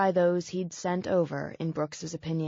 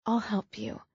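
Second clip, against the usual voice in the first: whisper; 3 semitones higher than usual. Acted. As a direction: whisper it gently close to him. Tender whisper to hurt man.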